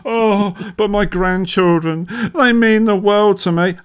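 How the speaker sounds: a hint of a sentimental nan, slowed on "grandchildren"; mildly mocking a nan's sentimental plea; mock old nan. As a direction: lightly voice a doting grandmother. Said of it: "she's going".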